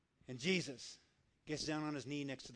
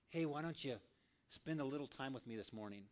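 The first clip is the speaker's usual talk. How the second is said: soft, gentle invitation from God; still small voice; 3 semitones lower, 7 dB quieter than usual. Acted. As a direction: coax softly and low, like an inner nudge. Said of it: "you hear that still small voice".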